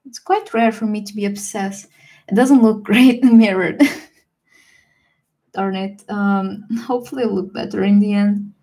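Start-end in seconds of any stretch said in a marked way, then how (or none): 2.3-4.0 laughing through the words; amused laugh mid-sentence. Real, not acted. Laughs at her mirrored drawing.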